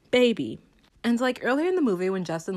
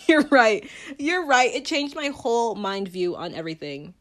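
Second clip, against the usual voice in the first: loud, high mock concession; sarcastic agreement; 4 semitones higher, 5 dB louder than usual. Real, not acted. Vlogger mockingly agreeing with conservatives, loud and high. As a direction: concede it with an eye-roll. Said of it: "sarcastic agreement".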